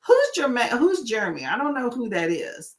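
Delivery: mild feigned puzzlement; nicer correction. Retold or imitated. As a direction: politely play clueless about the name. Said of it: "I would be nicer about it".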